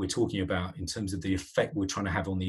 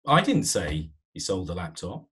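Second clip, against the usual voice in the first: denial; 2 semitones lower than usual. Shown as a demonstration. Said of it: "Deny, yes".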